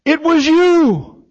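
high, loud, drawn-out wail through tears; retold tearful cry. Older woman to the caller through her tears, imitated tearful cry. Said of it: "through her tears".

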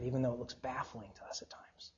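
hushed whisper. Real, not acted. Preacher confiding to the men, whispered. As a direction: drop to a near whisper. Sermon winding down softly.

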